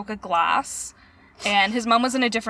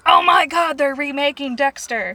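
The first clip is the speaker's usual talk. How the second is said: mock excited fans; 4 semitones higher, 5 dB louder than usual. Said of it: "people are like".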